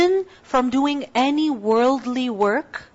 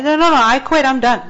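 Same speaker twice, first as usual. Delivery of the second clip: louder, lightly acted kid protest; a touch of stubborn refusal; 5 dB louder, faster than usual. Kid refusing to go to school, lightly acted protest. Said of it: "They say".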